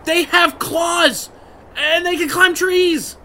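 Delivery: worked-up bear fan; excited. Real, not acted. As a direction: drive home every word about bears. Heated bear argument.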